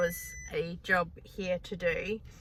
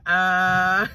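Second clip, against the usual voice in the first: dazed uh; 6 dB louder than usual. Retold or imitated. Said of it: "some people have no idea with me going".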